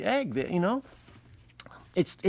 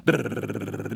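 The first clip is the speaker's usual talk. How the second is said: car engine; 4 semitones lower than usual. Shown as a demonstration. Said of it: "that's my impression of driving".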